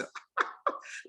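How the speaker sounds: imitated drunken cackle; drunken laugh. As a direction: laugh like a tipsy reveller. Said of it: "they're drunk and just throwing it".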